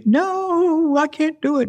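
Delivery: high, frightened refusal; scared. Retold or imitated. To her friend on the rock, a panicked high no.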